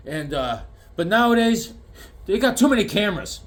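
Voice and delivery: mock old man remembering the old days; lightly voiced old dad. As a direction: play his dad reminiscing. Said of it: "He'd be like".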